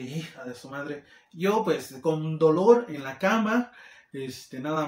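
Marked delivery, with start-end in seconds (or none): 0.0-1.0 much softer and lower, muttered to himself; a soft, low aside of annoyance; under his breath. Retold or imitated. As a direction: curse her quietly so no one hears. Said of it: "Yo así de".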